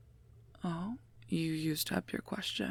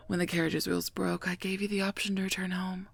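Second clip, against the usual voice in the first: raised voice, defensive and fed up; exasperated; 3 semitones higher than usual. Acted. Guard argues with a royal over having to walk, exasperated.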